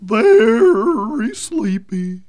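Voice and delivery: trance echo. Acted. Echoes in trance.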